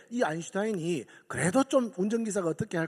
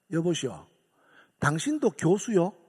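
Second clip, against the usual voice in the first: mocking retort; 6 dB louder than usual. Driver rebuffs the professor, building to a loud jab. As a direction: toss the question back with scorn, rising to a call.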